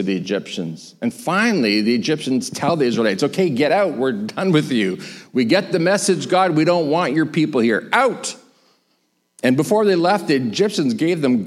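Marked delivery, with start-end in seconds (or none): 3.2-8.3 exasperated dismissal. Acted. Egyptians telling Israelites to leave, fed up. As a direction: send them away, done with them.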